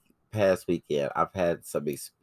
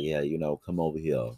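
put-on creeper southern accent; 3 semitones lower, 6 dB quieter than usual. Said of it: "he got that little southern accent and he be like".

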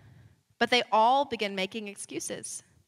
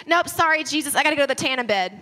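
flippant brush-off; 3 semitones higher, 5 dB louder, faster than usual. Pretend. Mock brush-off of Jesus.

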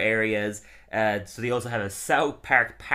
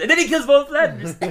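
hammed-up eager line, much higher and louder; mock enthusiastic; 9 dB louder than usual. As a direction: overdo the enthusiasm as a parody. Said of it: "that wouldn't look natural".

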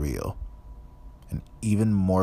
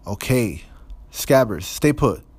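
frantic Ron; 4 semitones higher, 4 dB louder than usual. A narrator's reading. Ron struggling with rat.

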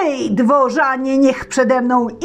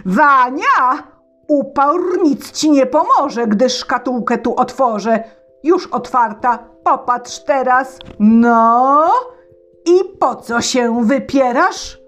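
tsar yelling, higher and louder; tsar shouting; 7 semitones higher, 5 dB louder than usual. Acted. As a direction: shout at Wania in triumph. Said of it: "krzycząc". (car krzyczy na Wanię)

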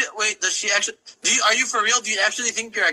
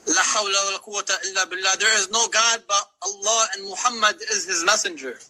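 quick religious recitation, murmured fast. Real, not acted. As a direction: rattle off the prayer in alarm. Reciting in shock at blasphemy.

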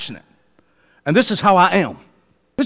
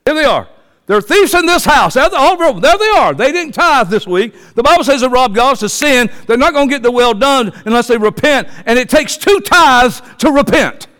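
mock shaming preacher; 4 semitones higher than usual. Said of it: "If I started doing that to people".

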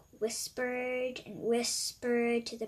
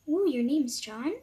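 shocked; 3 semitones higher, 9 dB louder than usual. Acted. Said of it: "shocked Cupcake said".

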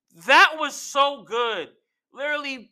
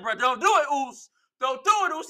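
mildly urgent, raised-pitch plea; retold urgent plea; 5 semitones higher, much faster than usual. Imitating Jey begging his brother to stop, urgent. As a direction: plead with him to stop.

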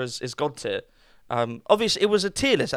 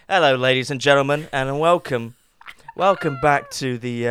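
mock announcer; 4 semitones lower than usual. Host pretending a formal course opening, mock announcer. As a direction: play the grand show host. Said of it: "I'm just kidding".

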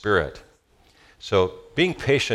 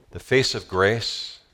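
slow emphasis; slower than usual. Real, not acted.

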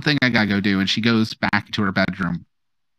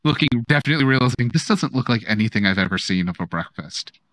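high, flustered aunt voice; squealing baby talk aunt; 4 semitones higher than usual. Acted.

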